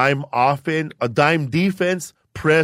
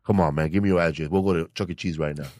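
low, quiet, fast black voice; 9 semitones lower, 4 dB quieter, faster than usual. Retold or imitated. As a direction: rush it low and smooth. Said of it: "doing a black voice".

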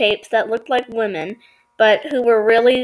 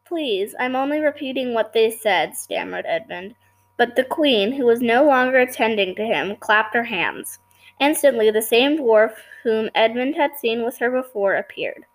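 story narration. A narrator's reading. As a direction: read the tale aloud at an even pace. Reads story aloud to listeners.

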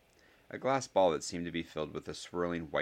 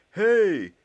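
full, high-pitched yell; shout; 13 dB louder than usual. A narrator's reading. Ernie shouts up at Goyle, loud high yell. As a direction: yell it to someone far away. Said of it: "shouted Ernie".

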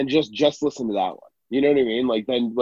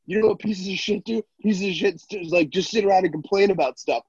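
mock bodybuilder rant; 4 semitones higher than usual. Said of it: "all he does is scream at you".

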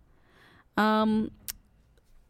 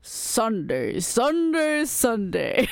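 deep voice; much slower than usual. Pretend. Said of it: "I could go deeper than you".

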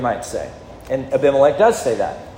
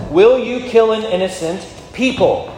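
emphatic pleading quote; 6 semitones higher than usual. Retold or imitated. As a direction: push the plea up with force. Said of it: "Look at what he says".

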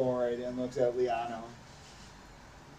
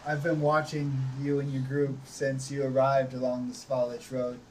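lightly voiced vampire lord. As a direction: announce yourself as an overlord. Strahd introduces himself.

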